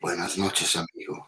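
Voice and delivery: hushed late-night greeting; whispering on the phone. Real, not acted. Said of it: "Why are you whispering?".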